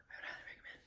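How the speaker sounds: whispered recommend. Real, not acted. To viewers, whispering the recommendation. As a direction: breathe highly recommend as a secret. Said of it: "I can't even hear you".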